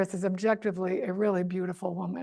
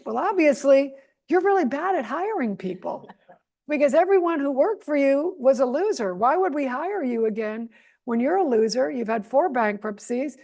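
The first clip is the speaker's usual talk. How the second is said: mock retort; 5 semitones higher, 4 dB louder than usual. Retorting to Trump, raised.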